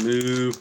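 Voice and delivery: short lowing moo like a cow; imitated moo. Streamer voicing how cows respond, cow moo. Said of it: "Cows will respond".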